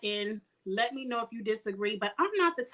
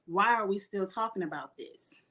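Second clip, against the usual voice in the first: mildly lowered, composed quote; very calm; 2 semitones lower than usual. Retold or imitated. Host quoting a mother who stepped in, very calm. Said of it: "Mama Gina very calmly said".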